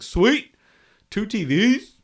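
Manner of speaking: loud, high excited yelp; excited shout. Retold or imitated. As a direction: shout it with sudden delight. Retold excited reaction.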